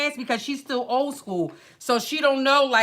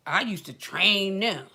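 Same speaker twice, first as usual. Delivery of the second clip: imitating the instructor; 3 semitones lower than usual. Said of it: "And this how she be too".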